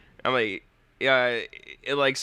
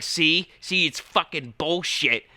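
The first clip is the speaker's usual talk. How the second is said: mock frustrated Voss; 5 semitones higher, slower than usual. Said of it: "he's like".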